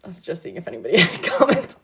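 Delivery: breaking into a laugh mid-sentence; chatty, laughing aside; amused aside. Real, not acted. Reader pausing to check for comments, laughing.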